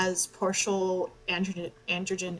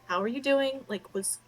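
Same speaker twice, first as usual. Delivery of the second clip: fussing mother; 4 semitones higher than usual. Acted. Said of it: "she's very much like".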